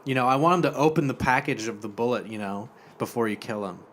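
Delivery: lilting, mock-earnest explanation; lightly camp voice. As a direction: explain sweetly in a camp voice, easing down. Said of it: "he kinda sounds like that".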